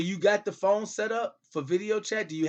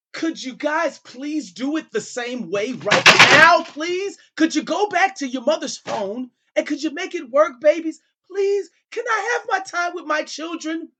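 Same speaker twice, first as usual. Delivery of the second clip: high, louder begging, voice straining upward; desperate pleading; 7 semitones higher, 6 dB louder than usual. Real, not acted. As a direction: beg them with everything you have. Desperately begging his children.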